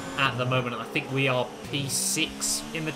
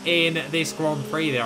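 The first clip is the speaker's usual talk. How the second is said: excited; 4 semitones higher, 3 dB louder than usual. Real, not acted. Yellow flags, cars out, points.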